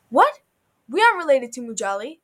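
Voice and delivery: high, loud burst of disbelief; startled outburst. A narrator's reading. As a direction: burst out in shocked protest. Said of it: "Susie burst out".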